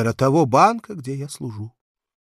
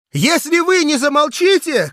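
high, loud furious shout; choking with rage; 14 semitones higher, 9 dB louder than usual. Acted. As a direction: yell it, spluttering with anger. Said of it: "крикнул я, захлёбываясь от злости".

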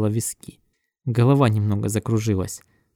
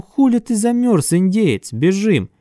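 shouting; 8 semitones higher, 4 dB louder, slower than usual. Retold or imitated. Retold shout to stoned friend.

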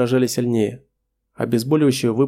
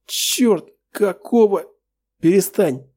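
pained cry; 8 semitones higher, much slower than usual. Acted. Hero seized by agonising pain.

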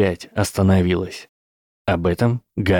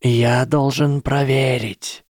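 hissed; 5 semitones higher, slower than usual. Acted. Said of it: "прошипел Гарри".

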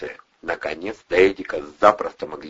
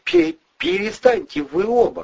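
high, loud, stumbling command; loud stammered order; 5 dB louder than usual. A narrator's reading. Eddie stopping the fight, loud stammering shout. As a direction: shout to break them up, stuttering. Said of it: "громко сказал армеец".

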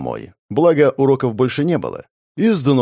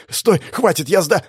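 panicked plea; 7 semitones higher than usual. Acted. Victim begs, cut off.

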